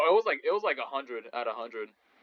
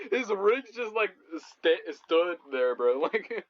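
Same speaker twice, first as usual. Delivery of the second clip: laughing; 5 semitones higher, much slower than usual. Real, not acted. Laughing at the frozen player.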